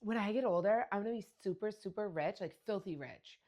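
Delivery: lightly voiced excited little girl; a hint of a dreamy child bragging; imitating young daughter. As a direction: play the kid dreaming big. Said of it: "she goes".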